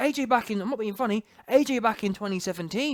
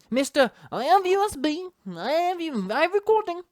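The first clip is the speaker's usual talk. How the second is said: high-pitched foreign caricature; hammed-up high, singsong boxer impression; mock Klitschko; 8 semitones higher than usual. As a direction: send up his sales talk in a silly high accent. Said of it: "All this kind of business, talking about his U S B".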